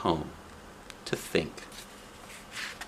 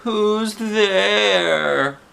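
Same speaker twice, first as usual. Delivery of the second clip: high, small sad voice; a small sad voice from behind the door; sad little voice; 11 semitones higher, 3 dB louder than usual. A narrator's reading. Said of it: "asked a sad little voice".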